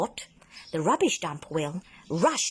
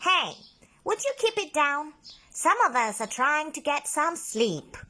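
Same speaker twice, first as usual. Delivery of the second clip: booming voice from the dump; 9 semitones higher than usual. A narrator's reading. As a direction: grumble at the noise from inside the bottle. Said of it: "a voice boomed across the dump".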